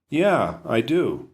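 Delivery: stretched-out, deliberately slow; slow smug reply; slow teasing drawl. Acted. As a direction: drag it out to make him squirm. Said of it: "I decide to let him squirm".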